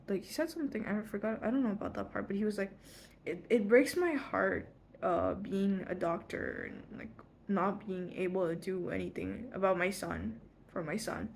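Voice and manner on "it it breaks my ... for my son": slow, halting retold confession; a father's slow, understated heartbreak, imitated; fatherly heartbreak. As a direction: imitate a heartbroken dad, slowly. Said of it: "his voice was so fatherly".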